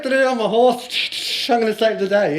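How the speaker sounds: self-mocking super dad charging in; mock heroic fanfare. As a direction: playfully sing out your own rescue. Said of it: "Here I go".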